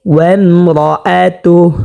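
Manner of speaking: slow ওয়ামরাআতুহ with a thick, rounded রা; measured recited ওয়ামরাআতুহ, full heavy r; heavy R recitation. Shown as a demonstration. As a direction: thicken রা in ওয়ামরাআতুহ and stop on a breathed h. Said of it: "তা হাকে ধরবে".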